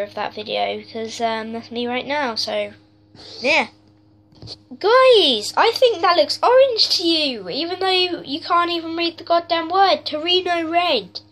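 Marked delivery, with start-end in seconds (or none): 4.8-11.2 raging gamer. Real, not acted. Ranting about color names.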